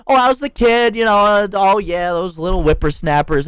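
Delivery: a hint of a chummy supervisor putting it on; fake small talk. Employee mocking a supervisor's fake small talk, fake-cheery. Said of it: "they'll come up and be like".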